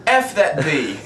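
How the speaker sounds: hammed-up British accent; mock British woman. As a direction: imitate a British dog walker scolding her dog. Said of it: "I'll use abbreviations in British".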